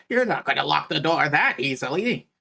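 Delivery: flat robotic voice over a speaker; mechanical intercom voice. Acted. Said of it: "in a very similar mechanical voice to the voice that was on the intercom".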